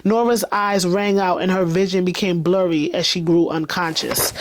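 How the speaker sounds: brisk, tense story reading; dramatic audiobook narration. A narrator's reading. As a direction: read the action scene aloud with momentum. Reads the novel aloud.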